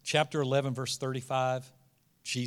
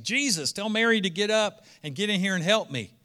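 higher-pitched retold grumble of a sister; mildly fed-up imitation of a put-upon sister; exasperated complaint; 5 semitones higher, 4 dB louder than usual. Martha to Jesus about her sister sitting, mock exasperated.

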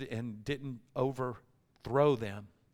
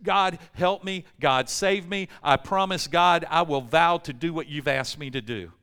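pleading in distress; 4 dB louder than usual. Retold or imitated. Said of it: "prays to God out of his distress".

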